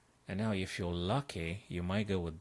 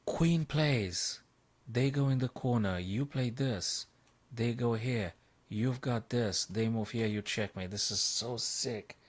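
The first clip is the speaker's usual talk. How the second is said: calling the winning line, thrilled; excited; 4 semitones higher than usual. Real, not acted. Chess streamer walking through the combination, excited. Solving a puzzle, thrilled by mates.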